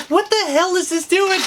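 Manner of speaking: high-pitched incredulous reaction; retold disbelief. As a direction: act out a baffled double take. Retold reaction to finding the bag.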